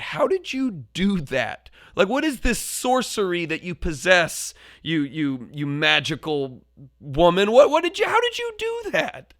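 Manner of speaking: astonished, rising high to the end; mentor, how did you do that, said in awe; amazed. Retold or imitated. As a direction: marvel at the mentor's trick.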